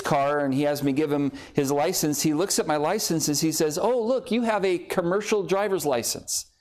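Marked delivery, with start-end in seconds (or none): 3.8-6.5 higher-pitched officer making a discovery; mock surprise. Officer checking a driver's license, in mock surprise. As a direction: imitate an officer noticing something unexpected.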